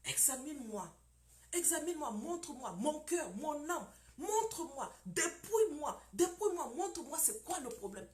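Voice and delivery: fervent prayer to God, near tears at times; pleading prayer. Shown as a demonstration. Preacher shows the flock how to pray, pleading. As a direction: beg God to search your heart. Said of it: "appelle Dieu à t'examiner".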